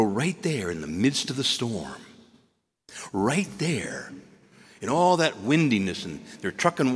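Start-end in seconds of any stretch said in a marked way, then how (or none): 3.1-4.1 whisper. Real, not acted. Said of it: "whispered emphasis in sermon".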